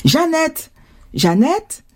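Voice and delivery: mother's call across the yard. A narrator's reading. Mother calls her daughter at play, calling out. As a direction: call a child in, high start. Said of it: "une voix familière".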